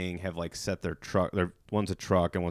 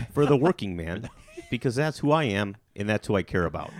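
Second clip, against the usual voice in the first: mock Midwestern accent. Podcaster jokingly hams up a Midwestern working-man voice. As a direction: play up a hint of Midwestern accent. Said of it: "I think your Midwestern s".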